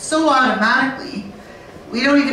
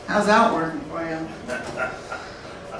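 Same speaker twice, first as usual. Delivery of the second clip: sarcastic; 5 semitones lower, 5 dB quieter, much slower than usual. Real, not acted. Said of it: "sarcastic jab at dictionaries".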